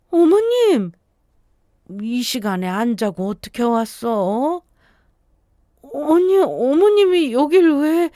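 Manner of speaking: high startled questions, slowed; shocked to see her there; startled surprise. Acted. Wife to mother-in-law at the door, high and startled.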